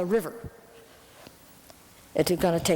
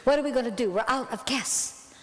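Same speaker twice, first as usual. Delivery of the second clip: high, huffy mock calm; sarcastic acceptance, pitched up; indignant reply; 5 semitones higher than usual. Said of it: "I said".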